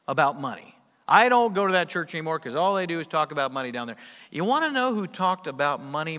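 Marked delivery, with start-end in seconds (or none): 1.1-4.0 quick mock complaint; grumbling churchgoer. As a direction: lightly imitate a churchgoer's grumble.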